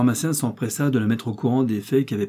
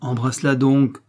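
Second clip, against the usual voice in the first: louder call; cried out loud; 3 semitones higher, 6 dB louder than usual. Acted. Father urging his daughter, a mild shout. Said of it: "cria très haut le pharmacien".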